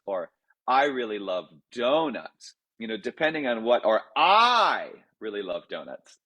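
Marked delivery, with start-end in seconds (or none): 0.7-2.5 I lifted at the start of I really love donuts; stress on I. Shown as a demonstration. Composer contrasting stressed words in a sentence. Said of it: "Depending on what I stress". 4.1-6.2 I sharply raised, rest falling; stress on I. Shown as a demonstration. Composer showing stress changes meaning. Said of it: "Depending on what I stress".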